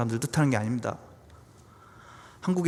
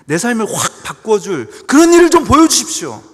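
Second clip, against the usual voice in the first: loud, high cry to God; impassioned demand; 8 semitones higher, 11 dB louder than usual. Acted. Believer demanding God show something new, loud impassioned plea. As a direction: demand it forcefully, voice raised.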